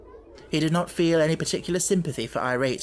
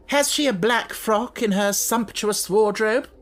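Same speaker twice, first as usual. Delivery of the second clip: slow, loud and higher, dripping sarcasm; bitter irony; 7 semitones higher, 4 dB louder than usual. Acted. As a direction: sneer the question. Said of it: "in bitter irony".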